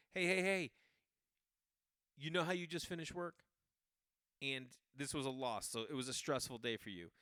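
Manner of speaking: hammed-up intrusive fan; mock pushy fan. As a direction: pester the tired player. Mock fan accosting player.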